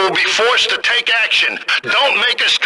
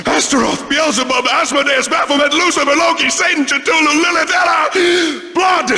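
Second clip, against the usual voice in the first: ranting cultist; 4 semitones higher than usual. Acted. Cultist invoking demons.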